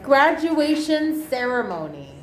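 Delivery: "Graduation ceremony" said high and clear as the model; teacher's correction. Shown as a demonstration. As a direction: show the right way: gra-du-A-tion CE-re-mo-ny. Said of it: "Oh my God".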